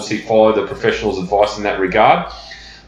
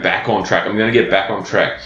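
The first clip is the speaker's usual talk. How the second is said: scornful quoting; 2 semitones lower than usual. Retold or imitated. Coach to clients, scorning their favourite phrase: mocking repetition. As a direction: sneer at "back on track" as a hated phrase. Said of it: "I hate that term".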